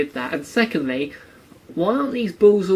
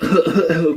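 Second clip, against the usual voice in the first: mock coughing; 2 semitones higher, 5 dB louder than usual. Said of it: "they're all going".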